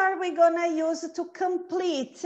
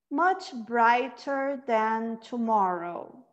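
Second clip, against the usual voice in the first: slow, evenly spaced lines, pausing after each; very slow reading; slower than usual. Shown as a demonstration. Teacher reading along with beginners, very slow. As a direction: read it very slowly so others can follow. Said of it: "A gente vai ler bem devagar".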